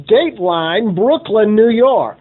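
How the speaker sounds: punchy vintage newsreel announcer delivery; old-time radio announcer. Acted. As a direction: read it like a 1940s radio dateline. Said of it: "like the old-time radio announcers".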